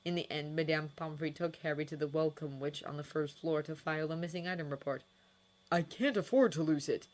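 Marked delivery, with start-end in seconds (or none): 5.7-7.1 urgent. Acted. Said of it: "said Harry urgently".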